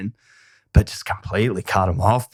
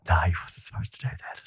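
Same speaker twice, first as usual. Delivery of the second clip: imitating Simon; 6 semitones lower, 10 dB quieter than usual. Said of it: "Simon's like".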